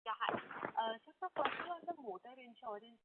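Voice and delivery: very faint, distant phone voice; barely audible. Real, not acted. Analyst starting a question on a bad line, barely audible. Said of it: "I'm unable to hear you".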